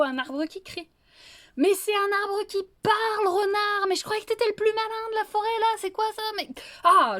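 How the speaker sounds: wolf at the end of his rope; furious wolf. Acted. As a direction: blow up at him, voice cracking high.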